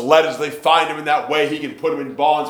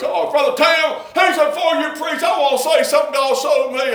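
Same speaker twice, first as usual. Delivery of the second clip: lightly voiced Brother David; 10 semitones higher than usual. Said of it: "And he said".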